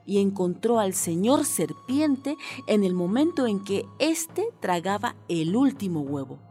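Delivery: put-on measured, expressive children's story reading; storyteller's lilt; storytelling narration. A narrator's reading. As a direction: read a tale to children, stretching key phrases.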